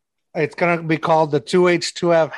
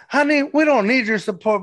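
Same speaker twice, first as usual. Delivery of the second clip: mock drag queen sass; 8 semitones higher than usual. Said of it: "She's like".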